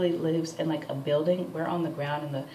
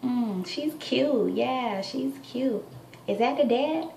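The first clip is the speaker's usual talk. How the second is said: nosy neighbor; 7 semitones higher, slower than usual. Retold or imitated. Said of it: "She's like".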